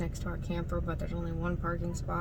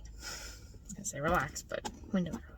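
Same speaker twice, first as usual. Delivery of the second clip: wry whisper; 3 semitones lower, 5 dB quieter than usual. Real, not acted. Wry aside about never relaxing.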